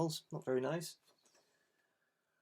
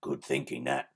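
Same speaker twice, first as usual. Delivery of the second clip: Lanky Len. Acted. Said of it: "said Lanky Len".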